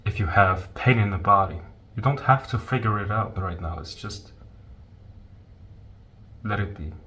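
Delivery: soft, unhurried meditation guidance with long pauses; guided meditation. Real, not acted. Teacher guiding listeners to leave their thoughts alone, calm meditation voice. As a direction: gently guide listeners into letting go.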